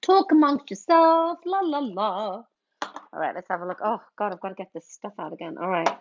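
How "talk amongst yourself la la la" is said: mock shooed aside. Busy host shooing chat.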